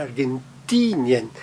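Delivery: Argentinien drawn out as "ar-gen-TEE-ni-en"; slowly, softly end Argentinien on "i-en"; unstressed IE as two vowels. Shown as a demonstration. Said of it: "a pronúncia fica I, E".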